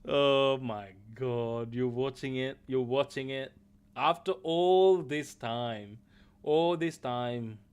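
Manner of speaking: loud, slow, drawn-out disbelief; excited disbelief. Real, not acted. Streamer calls out his friend for watching Witcher, loud and stretched. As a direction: stretch it out, loudly amazed.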